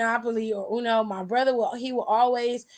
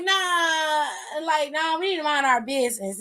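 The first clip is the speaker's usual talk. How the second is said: mock whining; 2 semitones higher than usual. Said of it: "They tired of getting their asses whooped".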